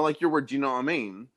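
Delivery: "do you know what I mean" run together as one word; British run-together words. Retold or imitated. Explaining to a British woman her word, "do you know what I mean" blended. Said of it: "the way they say it, it sounds like one".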